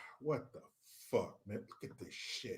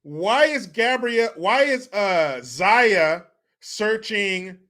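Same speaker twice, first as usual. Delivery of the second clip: 1 Gabrielle Union impression; 2 semitones higher than usual. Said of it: "impression of Gabrielle Union at home".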